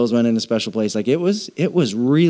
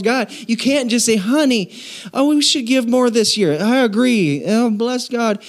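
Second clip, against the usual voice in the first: playful Southern twang, pitched up; Southern accent; 9 semitones higher than usual. Retold or imitated. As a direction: ham up a Southern couple talking about giving. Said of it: "I don't know why I'm Southern".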